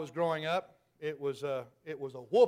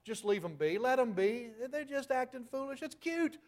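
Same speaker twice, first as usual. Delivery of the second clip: mocking dismissive quote; 2 semitones higher than usual. Mocking church members who excuse a child's foolishness, rushed and cutesy. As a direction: brush it off like it's nothing, then coo it. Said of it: "I've heard it said for the last twenty years".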